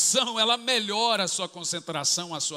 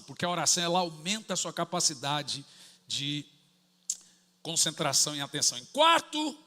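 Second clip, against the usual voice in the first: ordinary delivery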